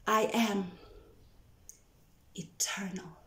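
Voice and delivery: soft fading whisper. Acted. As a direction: let the word dissolve. Poem, whispered word.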